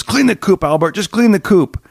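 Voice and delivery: high-pitched, insistent order; mock exasperated father. Father ordering son to chores, mock exasperation. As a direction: cut the argument off, exasperated.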